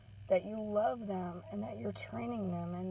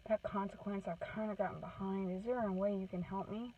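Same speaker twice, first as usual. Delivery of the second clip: put-on child asking softly; 6 dB quieter than usual. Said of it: "They may even come to you and say".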